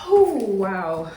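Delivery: high, teary voice; choked up with emotion; crying. Real, not acted. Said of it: "I burst out crying".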